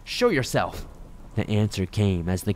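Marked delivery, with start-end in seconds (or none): 0.0-0.9 high, alarmed demand; pitched-up, frightened challenge; panicked demand. A narrator's reading. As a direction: call out into the dark with rising panic. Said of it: "panic rising in my throat".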